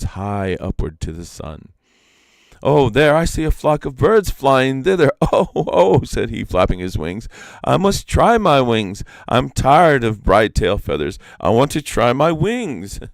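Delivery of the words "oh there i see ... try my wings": eager peacock. A narrator's reading. Restless peacock eager to fly.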